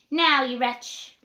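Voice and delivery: slow, loud scolding; angry landlady. Acted. Missus Williams scolding Jack under the pie, slow and furious. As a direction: spit it out at him. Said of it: "said Missus Williams".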